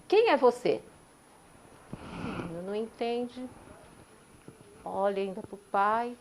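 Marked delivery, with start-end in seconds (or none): 0.1-0.8 answering echo. Retold or imitated. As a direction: give it back like a distant echo. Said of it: "uma voz responde".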